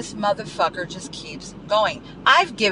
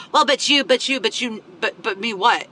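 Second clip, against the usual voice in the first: mock sputtering protest; 3 semitones higher than usual. Mimics someone deflecting a boundary.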